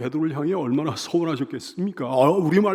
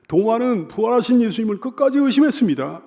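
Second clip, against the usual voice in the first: ordinary delivery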